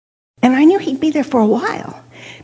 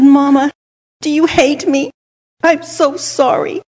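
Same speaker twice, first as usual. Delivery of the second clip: put-on higher, pleading child's voice; retold remorse; 3 semitones higher than usual. Guilty child asking Mama if she hates her, pleading. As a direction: plead for forgiveness, acting it out. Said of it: "I felt so bad".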